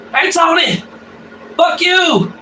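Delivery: high-pitched talking dog voice; meme dog. Retold or imitated. Speaker retells a dog meme video, high mock dog voice. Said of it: "And the dog's like".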